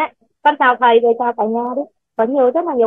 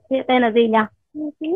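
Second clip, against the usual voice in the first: ordinary talk, nothing marked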